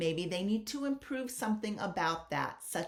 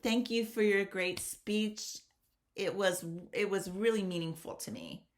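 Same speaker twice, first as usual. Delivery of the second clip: flat ending. Shown as a demonstration. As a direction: trail off with no energy. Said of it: "You don't just want to end kind of, like, flat".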